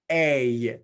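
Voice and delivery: A said long and clear as a model sound; teacher modelling the sound A; vowel demo. Shown as a demonstration. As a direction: hold the vowel A for the class to copy. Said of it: "Once more".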